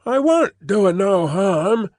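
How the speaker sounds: high, slow whining protest; young Jerry protesting to his father, high and whiny; protesting boy. Acted. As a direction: plead innocence like a sulky boy. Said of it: "young Jerry protested".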